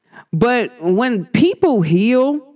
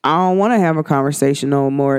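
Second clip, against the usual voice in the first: low, checked-out refusal; bow out of it in a low voice; cool withdrawal; 5 semitones lower than usual. Retold or imitated. Speaker opting out of a triggering talk, cool withdrawal. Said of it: "I just be like, "I'm cool".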